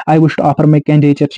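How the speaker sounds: each word spaced out for copying; slow dictation. Shown as a demonstration. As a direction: read the model line slowly. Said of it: "ये भी याद रखने line".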